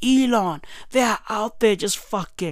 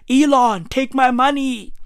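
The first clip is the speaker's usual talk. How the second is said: higher, louder fawning plea; mock eager offering; 5 semitones higher, 3 dB louder than usual. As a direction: imitate a gushing admirer throwing money. Voices grown men begging Elon.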